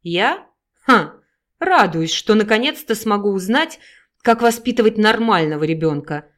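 loud, sneering mother; mocking smirk. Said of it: "усмехнувшись, заявила мать". (насмешливо, с издёвкой)

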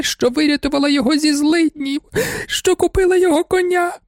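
a baroness weeps over her ungrateful man; sobbing lament. A narrator's reading. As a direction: wail it through sobs. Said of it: "спазматичні ридання".

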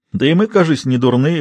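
ordinary delivery, nothing marked

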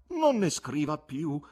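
beg, drawing out each word; imploring. A narrator's reading. Guest begging the poet to stop writing, imploring. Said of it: "pregò l'uomo con voce implorante".

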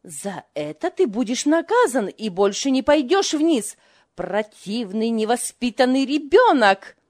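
loud furious scolding; angry. A narrator's reading. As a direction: scold the child in a fury. Mother furious at son.

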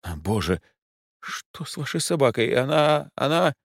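high, stammering fright; frightened lady. A narrator's reading. The client panics at the capybara behind them. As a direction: gasp at the beast behind them. Sees the huge animal.

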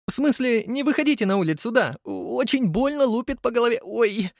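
flustered, getting pelted; squeaky lady. Acted. Debora hit by pearls. (высокий писклявый голос Деборы)

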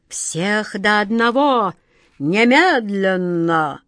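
slow, whispered command; king whispering a slow order; hissed order. Acted. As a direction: breathe the threat out slowly.

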